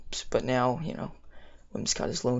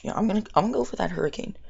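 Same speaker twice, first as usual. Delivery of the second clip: excited; 7 semitones higher, much faster than usual. Real, not acted. Committing to a risky move.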